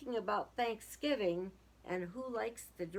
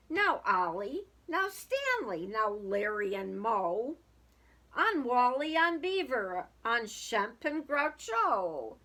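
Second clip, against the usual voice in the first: louder, calling the turkeys by name; 6 dB louder than usual. Acted. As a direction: call each name out across the barnyard. Farmer calling out turkey names.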